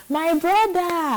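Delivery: put-on drunken crying. Imitating a drunk friend crying to someone, drawn-out wail. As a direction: imitate a drunk woman wailing, long and high. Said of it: "she was gone crying".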